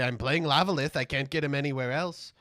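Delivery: hammed-up wounded protest; mock-outraged reply to critics; indignant retort. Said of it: "I say".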